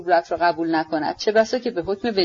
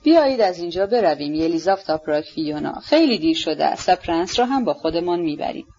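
lower, gentle coaxing to leave; calm and soothing; 5 semitones lower than usual. Acted. Prince calmly urging the lady to go home, soothing. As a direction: soothe her with a lightly smiling tone.

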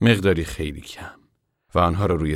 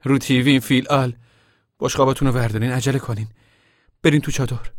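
higher, louder calling out; shouting; 6 semitones higher, 5 dB louder than usual. Acted. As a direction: call the kids across the camp. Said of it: "فریاد کشان گفت".

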